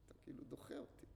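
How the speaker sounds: breathless, high, hurried whine of hurt; hurt plea. Retold or imitated. Student tells his rabbi, hurt, that he feels rejected. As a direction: plead that he's being pushed away. Student complains teacher pushes him away.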